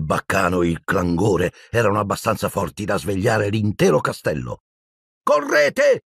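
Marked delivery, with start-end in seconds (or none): 5.2-6.0 high, urgent yell to run; urgent shout. A narrator's reading. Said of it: "gridò Harry". (grido urgente e acuto)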